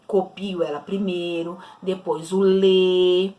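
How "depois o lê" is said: slow syllable drill. Shown as a demonstration. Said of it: "vejo qual é a sílaba T".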